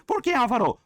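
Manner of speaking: student calling out. Pretend. Teacher voices a student calling out.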